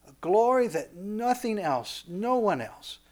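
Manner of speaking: soft, measured divine declaration; voice of God. Acted. God declaring man's special glory, hushed and solemn. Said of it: "And God says".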